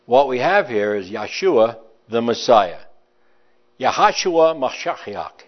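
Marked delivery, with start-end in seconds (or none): 3.8-5.4 "Yahashua Mashiach" said slowly in Hebrew sounds; Hebrew pronunciation. Shown as a demonstration. Preacher teaching the congregation the Hebrew name, slow and careful. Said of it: "That's how you would say it in Hebrew".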